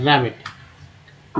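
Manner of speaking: रैबिट drawn out very slowly, flat "a" in the first syllable; teacher slowly modelling रैबिट for students; slow model word. Shown as a demonstration. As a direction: stretch out रैबिट slowly so the short "a" is clear. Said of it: "रैबिट में ए का उच्चारण ए किया गया".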